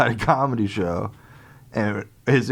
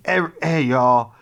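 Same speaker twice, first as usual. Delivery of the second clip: mopey sad man; much slower than usual. Retold or imitated. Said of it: "he just comes up and goes".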